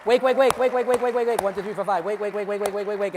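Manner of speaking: high, loud rapid wake commands; loud wake-up call. Acted. Hypnotist waking volunteers, loud insistent call. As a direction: snap them awake. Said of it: "Everybody wide awake".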